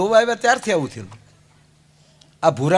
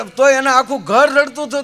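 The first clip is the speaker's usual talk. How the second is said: ordinary talk, nothing marked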